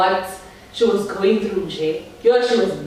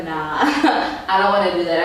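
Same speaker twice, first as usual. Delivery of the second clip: laughing refusal; 3 semitones lower than usual. Retold or imitated. Retelling refusing at parties.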